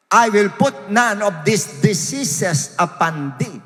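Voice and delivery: slow, forceful Bible proclamation; preacher declaiming scripture; emphatic scripture reading. Acted. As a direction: read the verse out phrase by phrase, punching words. Reads King James verse aloud.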